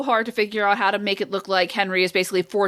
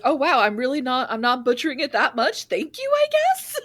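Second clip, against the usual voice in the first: imitating the coach; 2 semitones higher than usual. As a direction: play the coach, faintly sarcastic. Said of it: "notes from her".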